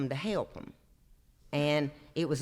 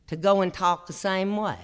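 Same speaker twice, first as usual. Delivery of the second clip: laughing; 3 semitones higher, 4 dB louder than usual. Real, not acted. Punchline of Mama's quote.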